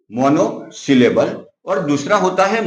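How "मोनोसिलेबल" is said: मोनोसिलेबल drawn out slowly, each part separate; teacher spelling out मोनोसिलेबल slowly for students; slow, syllable by syllable. Shown as a demonstration. Teacher repeating मोनोसिलेबल slowly so students catch each part.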